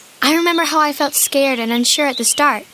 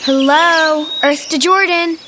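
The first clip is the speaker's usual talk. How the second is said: calling out; 3 dB louder, slower than usual. Acted. Calling a daydreaming boy back.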